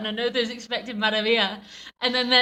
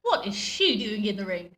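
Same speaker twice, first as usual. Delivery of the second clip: English crowd voice. Retold or imitated. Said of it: "why they're English".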